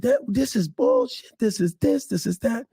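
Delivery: mock screaming. Actor mimics the director's outburst at the read-through, mock screaming. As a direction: imitate someone cussing and screaming, voice pushed up high. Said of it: "John starts cussing and screaming".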